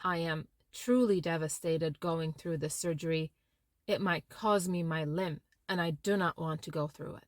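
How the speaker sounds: low, soft and heavy with grief; gentle, downcast, earnest; sincere sadness. Shown as a demonstration. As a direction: let the sorrow sit quietly in the voice. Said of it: "I thought something like this".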